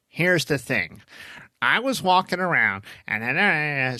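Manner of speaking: a hint of Squidward in the delivery; Larry. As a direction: draw out the build-up like Squidward. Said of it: "we used to imitate Larry".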